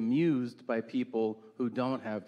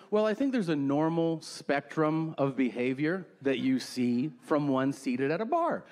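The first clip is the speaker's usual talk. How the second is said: usual speaking voice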